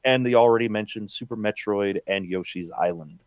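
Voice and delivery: one-breath list, pitch sinking to the end; all in one breath. Shown as a demonstration. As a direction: start high and strong, run down as breath goes. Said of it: "Do it in one breath".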